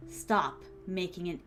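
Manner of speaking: hint of a stern royal, slow and direct; direct prince. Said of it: "prince's voice, like, it should be very direct".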